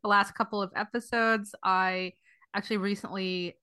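stiff, numb jaw after surgery; talking through a numb, swollen jaw. Real, not acted. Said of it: "if I sound a little strange".

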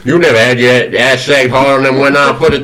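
lightly voiced Southern gentleman; Colonel Sanders. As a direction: try on a folksy Kentucky colonel. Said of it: "who is Colonel Sanders".

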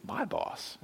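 uneasy realization, lightly acted, pitch rising; mock-worried boss. A boss foreseeing an employee passing him, mildly worried. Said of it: "even the boss starts to think".

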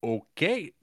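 high, loud drawn-out okay; a pointed, rising okay; loud ironic okay; knowing okay. Retold or imitated. Resigned reaction to wife.

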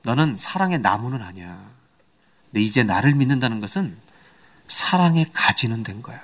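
lightly voiced Lord, unhurried and low; measured, imitated divine pronouncement; the Lord speaking. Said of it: "주님은 이렇게 말씀하세요".

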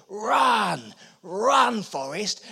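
high, loud cry of run; shouted urging from a friend; urgent call. Retold or imitated. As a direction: call him to run from far off. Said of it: "Jenny's voice ringing in his ear".

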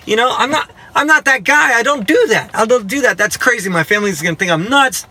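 retold protest. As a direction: argue your way out of it with God. Arguing with God in retelling.

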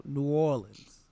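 slow New Orleans with short "linz"; local pronunciation. Shown as a demonstration. Settling the debate, New Orleans with short "linz". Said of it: "That's how you pronounce it".

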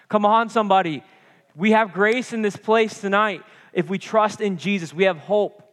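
loud, high, rousing call to the church; preaching at full force. Real, not acted. Preacher rousing the congregation to full voice. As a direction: lift the room with a big preacher's cry.

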